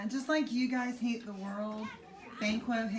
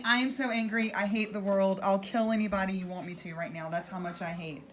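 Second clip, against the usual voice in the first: a touch louder, hammed-up hate; mock rage; 3 semitones lower, 3 dB louder, faster than usual. Teacher paraphrasing the murderer for students, in mock anger. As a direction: play an angry man, half-joking. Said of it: "You're just saying".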